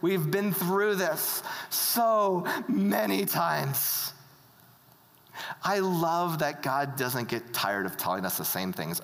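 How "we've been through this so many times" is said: mock-weary, stretching out the complaint; exasperated but fond, dragging the end; comic exasperation. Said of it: "there's comedy happening".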